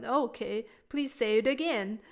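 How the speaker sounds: a touch of a challenge, pushing; mildly confrontational demand to repeat; challenging tone. Shown as a demonstration. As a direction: say it like you doubt them. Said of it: "sound like you're challenging someone".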